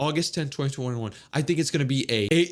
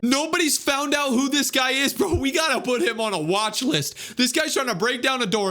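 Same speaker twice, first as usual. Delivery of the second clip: sing-song; 9 semitones higher than usual. Real, not acted.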